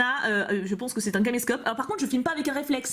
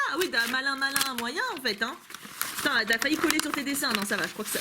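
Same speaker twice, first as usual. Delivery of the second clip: ordinary talk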